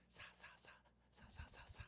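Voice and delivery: stuck on the first syllable, whispering; acted breathy, halting stutter; whispered stammer. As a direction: try and fail to get the word out. Pastor still stuck on word.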